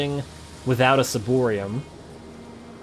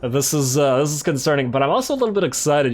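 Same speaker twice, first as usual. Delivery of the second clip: smiling voice; 3 semitones higher, 3 dB louder than usual. Real, not acted. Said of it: "You can probably hear the smile in my voice".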